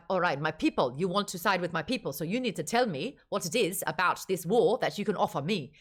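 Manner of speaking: lightly attempted South African accent. Narrator voices a Pluto leader picking sides, imitated South African accent. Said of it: "has a South African accent".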